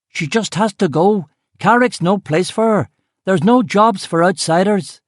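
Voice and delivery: high, loud yell from the crowd; a man in the mob yelling at Duffy about the woman, loud and high. Acted. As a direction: shout it across the street at the door. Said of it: "someone yelled".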